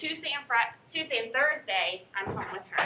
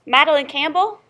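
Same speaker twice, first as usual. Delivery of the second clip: calling roll; 3 semitones higher, 7 dB louder than usual. Real, not acted.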